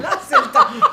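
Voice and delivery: high, laughing echo. Real, not acted. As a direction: repeat it through a laugh. Echoing, laughing, much higher.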